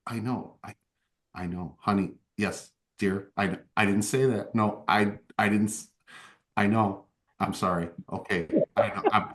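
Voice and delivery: soft, apologetic murmur to an angry partner; placating mutter. Acted. Buck soothes his jealous sword Blood Whisper, softly apologetic. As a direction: hush it, calming the sword down.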